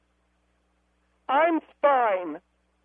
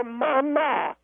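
voice cracking. Real, not acted. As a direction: voice cracks on the word. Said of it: "my voice cracked".

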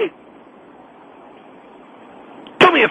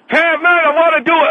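higher mock Chinese-guest voice; mocking Chinese accent; 5 semitones higher than usual. Caller mimicking the host's fake guest, mock Chinese accent. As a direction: parody the host's bad Chinese voice. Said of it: "and that Chinaman voice".

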